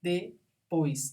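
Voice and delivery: "Depois" in two parts, de-pois; syllable by syllable. Shown as a demonstration. Teacher showing a diphthong, syllable by syllable. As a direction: break "Depois" after "de", keeping "ois" together. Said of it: "Depois é de tongo".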